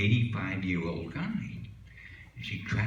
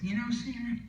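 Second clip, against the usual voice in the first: husband's punchline; 5 semitones higher than usual. Acted. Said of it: "Sam says".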